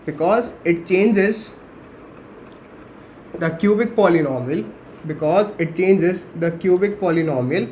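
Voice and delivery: very slow, stretched words with long pauses; slow dictation. Real, not acted. Teacher dictating why A cannot be zero, slow dictation. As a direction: dictate it phrase by phrase for note-takers.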